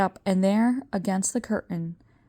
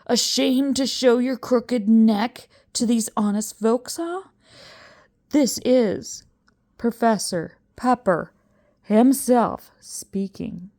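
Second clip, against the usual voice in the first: impatient; 4 semitones higher, 3 dB louder than usual. Acted. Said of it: "he was getting impatient".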